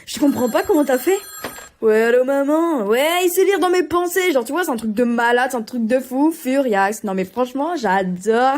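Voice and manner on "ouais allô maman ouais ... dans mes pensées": loud, high excited call to mum; mock phone call. Character rings mum to say he reads minds, excited and high.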